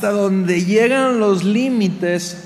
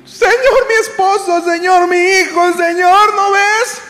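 very high, loud frantic appeal; desperate cries; 11 semitones higher, 5 dB louder than usual. Acted. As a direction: plead at full voice, each "Señor" more urgent. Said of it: "Y en nuestra desesperación". (gritos de súplica desesperada)

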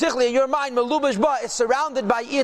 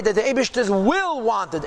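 slow down and give "will" clear emphasis; stress on WILL. Real, not acted. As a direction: lean on "will", drawing it out slowly. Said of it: "Emphasis on the word will".

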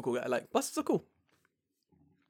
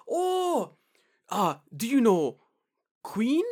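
eager question; 9 semitones higher, 8 dB louder, much slower than usual. Retold or imitated. Bus driver retold, excited.

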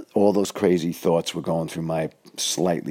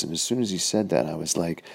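normal talking voice

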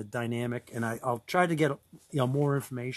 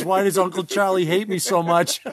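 voicing the dog; 4 semitones higher, 5 dB louder than usual. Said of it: "what the dog was really saying is".

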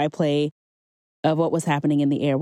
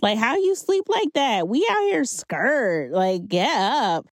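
high, slow, pleading disciple waking the master; mock-frantic plea to wake up; panicked disciple; 6 semitones higher, slower than usual. Disciples begging the sleeping Jesus, high and frantic.

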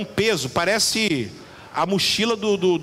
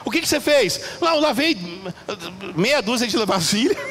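put-on dramatic child. Preacher voicing child's dramatic complaint.

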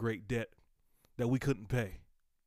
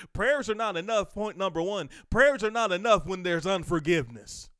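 emphatic restatement; 8 semitones higher, 8 dB louder than usual. Shown as a demonstration. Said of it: "let me say it like this".

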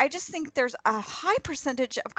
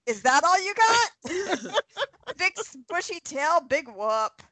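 sassy squirrel voice; 6 semitones higher than usual. Pretend. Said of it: "And she says".

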